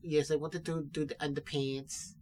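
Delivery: lightly voiced German accent, laughing; a light German fashion-icon accent. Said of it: "This guy sounds like that".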